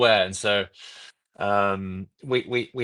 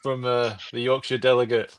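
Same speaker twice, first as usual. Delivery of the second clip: mock delegate announcement; 3 semitones higher than usual. Guest poses as Yorkshire delegate giving scores, mock announcer.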